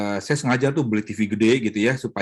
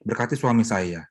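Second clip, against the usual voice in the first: loving prayer. Retold or imitated. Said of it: "Tapi dengan kasih".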